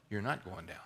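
soft, low reassurance; calm the panicking listener; reassuring. Real, not acted. Pastor answers the panicked cry.

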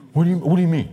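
loud, high indignant comeback; mock defensive. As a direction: snap back defensively, hammed-up. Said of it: "I get defensive".

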